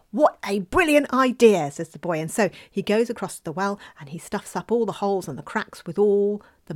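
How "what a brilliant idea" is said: slow and louder, delighted; the boy thrilled with the bird's trick. Acted. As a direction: savour the brilliant idea.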